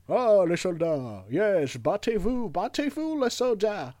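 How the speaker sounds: rally the soldiers like a hammed-up Churchill with an English accent. Churchill cheering soldiers on at Dunkirk, hammy English accent. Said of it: "J'aurais fait Churchill".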